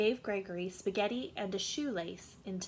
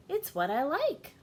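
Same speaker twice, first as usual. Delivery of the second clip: put-on higher, louder, stubborn kid; Gregory voice; 7 semitones higher, 5 dB louder than usual. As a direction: stubbornly state his taste. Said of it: "said Gregory".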